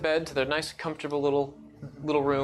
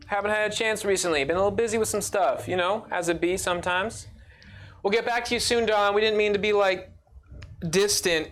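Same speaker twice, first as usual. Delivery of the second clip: higher, breezy brush-off; dismissive parent; 5 semitones higher than usual. Acted. GM voicing Nova's mom brushing her off on the phone. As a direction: sound like a busy mom placating her kid.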